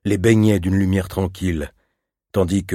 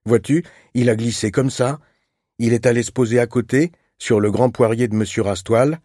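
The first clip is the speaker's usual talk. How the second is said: put-on a young girl's eager telling, pitched higher; lightly voiced little girl; 4 semitones higher than usual. Little girl telling her brother how her bird escaped, eager and high. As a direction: rush through the story like an upset child.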